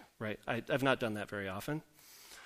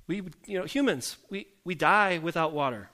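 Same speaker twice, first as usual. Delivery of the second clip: grumbling complaint; 4 semitones higher than usual. Acted. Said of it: "they grumble against Moses".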